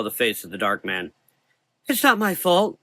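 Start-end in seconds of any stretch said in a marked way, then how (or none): 1.9-2.8 high, loud desperate plea; pleading. Acted. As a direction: beg to be believed. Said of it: "the boy pleaded".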